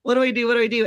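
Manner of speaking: flustered, repeating it to herself; recalling her nerves as a rock musician opens the cooler; nervous panic. Retold or imitated. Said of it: "And I was so nervous".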